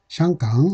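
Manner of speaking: 샹강 as Mandarin Xianggang; Beijing pronunciation. Shown as a demonstration. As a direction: say 샹강 the Beijing way, "shyang-gang". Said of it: "북경식 발음은". (북경식 발음으로 샹강)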